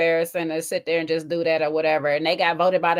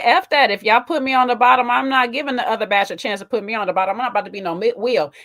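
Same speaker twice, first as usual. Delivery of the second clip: louder, raised defiant contestant; fired-up refusal, a touch louder; retold defiance; 4 dB louder than usual. Contestant refusing to be put at the bottom, defiant. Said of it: "she was like".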